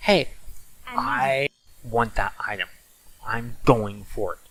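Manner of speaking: plain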